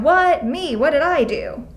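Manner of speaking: high, startled protest; defensive surprise. Shown as a demonstration. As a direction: jump up in pitch, taken aback. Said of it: "and then they're going".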